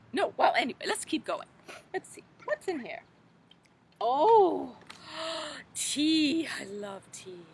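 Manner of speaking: put-on fussy, fluttery old storybook lady, gently theatrical; Mother Goose voice. Children's librarian as Mother Goose, fluttery storybook voice. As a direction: play a dotty nursery-rhyme granny for children.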